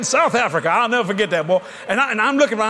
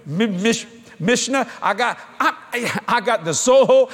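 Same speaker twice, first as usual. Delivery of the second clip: laughing; slower than usual. Real, not acted. Laughing while fumbling a word.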